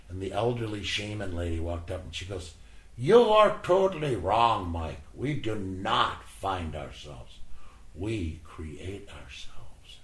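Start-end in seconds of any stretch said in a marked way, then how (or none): 3.0-10.0 wise elder correcting. Retold or imitated. Elderly shaman lady corrects him.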